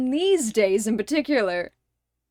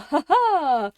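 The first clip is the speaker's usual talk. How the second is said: forced ha ha; 5 semitones higher, 5 dB louder than usual. Retold or imitated. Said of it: "funny neurotypical".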